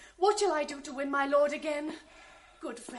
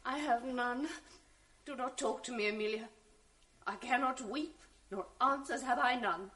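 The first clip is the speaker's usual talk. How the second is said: numbed grief; 4 semitones lower than usual. Acted. Wife to maid after husband's insult, numb. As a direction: speak from shock and hurt. Desdemona dazed, grief-struck.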